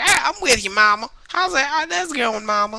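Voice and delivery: high, hammed-up imitation of the guy; mock goofy dude. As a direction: ham up the bearded guy's catchphrase. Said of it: "kept going like".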